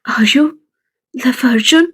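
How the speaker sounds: gentle question. Acted. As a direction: ask her tenderly, almost whispering. Friend gently asks about love.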